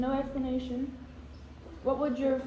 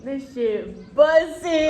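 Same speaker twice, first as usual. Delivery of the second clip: excited shout; 7 dB louder, much slower than usual. Real, not acted. Excited reaction to burger.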